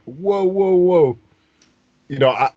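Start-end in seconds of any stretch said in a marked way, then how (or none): 0.1-1.2 alarmed whoa. Retold or imitated. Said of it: "I'm like".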